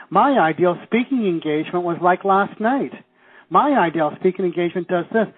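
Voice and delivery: "ideal" punched each time; stress on ideal. Shown as a demonstration. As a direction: lean hard on "ideal" as the key word. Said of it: "emphasis on the word ideal".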